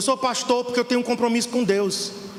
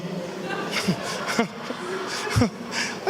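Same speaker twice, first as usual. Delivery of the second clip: breathy laugh; 6 dB quieter than usual. Real, not acted. Laughing at own joke about bread.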